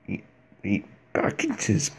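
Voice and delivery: creepy creature talk, drawn out slowly; creature impression. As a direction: play a hungry creature, stretching the questions.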